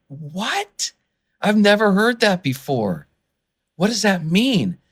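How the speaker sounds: mildly baffled, pitch lifted; retold disbelief. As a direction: react as if hearing it for the first time. Retold stunned reaction to verse.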